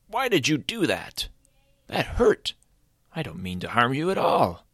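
high-pitched, wounded little creature; small hurt creature. Acted. Creature protesting to Caleb after being hit, high and hurt. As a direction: complain up high, meaning no harm.

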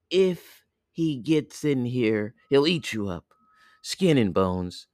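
a hint of a cautioning mother; mother goat lightly put on, pitch lifting on openings; lightly voiced mother goat. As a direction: warn the little ones, motherly. Voices mother goat warning children.

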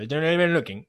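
quick demo with words joined; very fast, run together. Shown as a demonstration. Explaining the English line to listeners, very fast. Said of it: "lo dijo como muy rápido".

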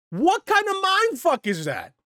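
high, slow incredulous cry; stunned disbelief, drawn out high. Real, not acted. Outraged rhetorical question.

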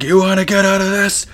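high-pitched mock robber voice; imitated mugger. Bum holding up a teenager, imitated mugger. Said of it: "He's like".

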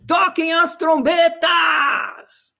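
high, drawn-out royal proclamation; king's command. Retold or imitated. King orders the trumpets, slow and ringing. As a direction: call it out like a king. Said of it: "ele falou assim".

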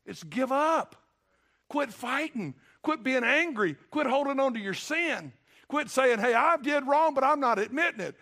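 fiery preaching. Acted. Preacher urging the congregation to quit fighting, fiery. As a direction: build into a forceful sermon climax.

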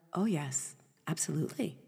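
quiet, settled assurance; still, certain heart. Acted. Heart with a conviction answering you, still and certain. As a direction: say it softly and surely, no push. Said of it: "still and certain and sturdy".

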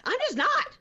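hammed-up tantrum, way up high; mock hysterical rant. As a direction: screech it like she's losing it by the car. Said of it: "Cheryl goes nuts by the car".

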